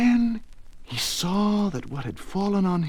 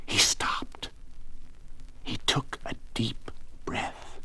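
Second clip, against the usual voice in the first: hushed; 4 semitones lower, 10 dB quieter than usual. A narrator's reading. Narrator hushes after panic.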